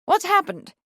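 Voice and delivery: a high, carrying call across the yard. A narrator's reading. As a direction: call out to the hurrying servants. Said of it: "he called to one of several servants".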